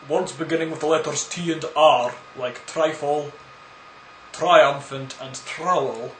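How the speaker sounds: mock Russian accent on the TR words. Shown as a demonstration. Shows why "trowel" sounds funny, mock Russian accent. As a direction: roll out each example in a put-on Russian accent. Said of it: "when you talk in a Russian accent".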